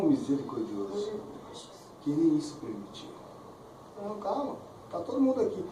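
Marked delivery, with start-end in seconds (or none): 4.0-5.6 voz mais aguda, tentando acalmar; retold reassurance, pitched higher; tranquilizador. Paulo acalma o carcereiro apavorado. (tom tranquilizador imitado, mais agudo)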